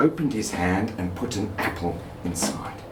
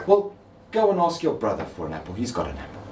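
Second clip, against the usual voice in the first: brisk mother; faster than usual. Acted. Mother answering daughter.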